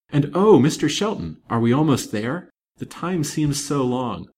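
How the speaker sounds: impatient, yearning appeal; eager impatience. Acted. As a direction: plead like an anxious father who can hardly wait. Anxious father eager to arrive.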